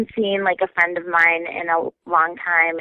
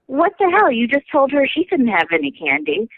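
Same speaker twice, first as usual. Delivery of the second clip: put-on indignant boyfriend; 5 semitones higher than usual. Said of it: "my boyfriend says to her".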